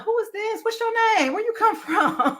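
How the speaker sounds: a smooth talker asking who you are; deep smooth man voice. Retold or imitated. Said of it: "He came like".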